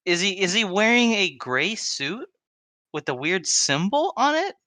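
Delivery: a lightly put-on Russian voice; Russian accent. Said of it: "Why is he speaking in a Russian accent?".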